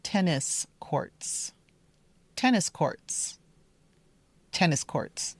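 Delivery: tennis courts with a short E and short I; careful tennis. Shown as a demonstration. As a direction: tennis courts, each vowel clear. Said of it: "the pronunciation is".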